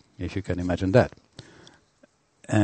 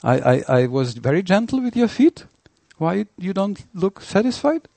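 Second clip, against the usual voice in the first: mock-innocent high voice, higher throughout; baffled host; 11 semitones higher than usual. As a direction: play the puzzled host who just beat his guest, voiced much higher. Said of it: "And then you say".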